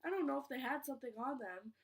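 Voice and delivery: stumbling, repeating words while rushing; stuttering. Real, not acted. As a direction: trip over the words nervously. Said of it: "I'm stuttering".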